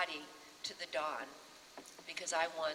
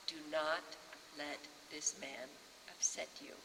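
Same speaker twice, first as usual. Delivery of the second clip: steady her gently; hushed, kind advice; 1 quiet reassurance; 4 dB quieter than usual. Retold or imitated. Director comforting her.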